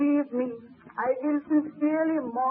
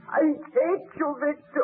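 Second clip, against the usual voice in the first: crying out in grief. Acted. Grief-stricken outburst at Victor.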